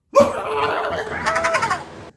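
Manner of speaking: high, loud laughing shout to startle; scare shout with laugh. Acted. Gaming shouts at Woohoo to scare the hiccups away, with a loud laugh. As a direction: burst out laughing loudly to make him jump. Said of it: "what was that for".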